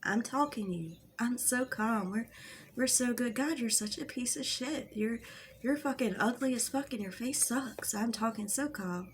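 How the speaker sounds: feigned calm while slinging insults; mock calm. Shown as a demonstration. Vlogger demonstrating the manipulation tactic, in mock calm. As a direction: insult someone while pretending to be perfectly calm. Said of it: "Let me demonstrate again".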